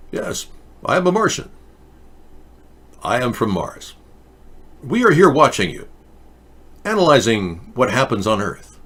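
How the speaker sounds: lightly voiced stiff alien monotone; a hint of a mannequin-faced Martian; Martian's way of speaking. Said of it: "He spoke like this".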